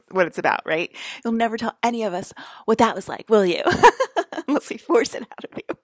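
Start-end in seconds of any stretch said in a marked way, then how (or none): 1.2-5.8 giggling, fast playful threat; laughing tease. Real, not acted. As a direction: laugh through a joking threat. Teasing threat through laughter.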